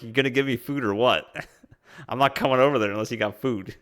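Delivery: lightly voiced grumpy animal; stern, angry animal. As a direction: play a stubborn creature, half laughing. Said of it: "he looks kinda stern and angry. He's like".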